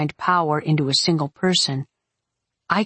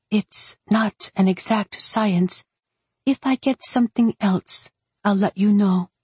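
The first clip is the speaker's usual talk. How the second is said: lightly voiced witch, higher and measured; apologetic young witch; 4 semitones higher than usual. Voices Sienna in dialogue.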